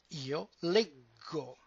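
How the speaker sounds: slow "io leggo" with a hard g, leh-go. Shown as a demonstration. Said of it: "the ending is o".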